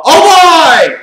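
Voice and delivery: high loud groaning exclamation; exasperated shout. Real, not acted. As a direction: shout it in disbelief. Exasperated reaction to match.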